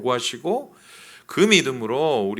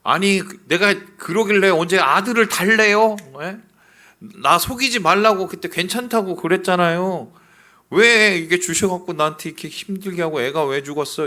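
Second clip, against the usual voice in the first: higher, louder indignant complaint; arguing with God; 6 semitones higher, 6 dB louder than usual. Acted. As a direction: demand answers like a grieving mother. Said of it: "따지는 겁니다". (하나님께 따지는 여인처럼 높고 큰 항의)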